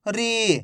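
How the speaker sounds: "री" with a long, held ee; drawn-out long vowel. Shown as a demonstration. Teacher modelling for learners to repeat, "री" drawn out. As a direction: stretch the vowel in "री". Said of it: "खींच खींच के पढ़ेंगे".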